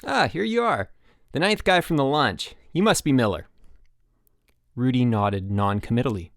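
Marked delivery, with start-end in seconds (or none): 0.1-3.5 high, bright eager camp coach; cheery coach. Acted. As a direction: greet him like a peppy gym teacher. Dave the chipper coach.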